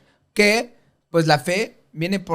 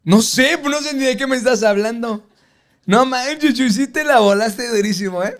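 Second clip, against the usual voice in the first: high, louder playful protest; mock exasperation; 7 semitones higher, 4 dB louder than usual. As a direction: scold your buddy in joking disbelief. Reclamo en broma a Chuy. (reclamo exagerado en broma, agudo y fuerte)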